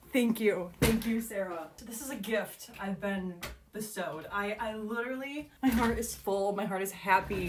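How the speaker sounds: quietly moved, savoring the gift; heartfelt gratitude. Real, not acted. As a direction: settle into tender contentment. Grateful to author for the scene.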